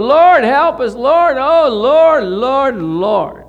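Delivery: loud, high pleading cry of "Lord"; desperate cry to God. Retold or imitated. Israel crying out to the Lord for help, loud desperate plea.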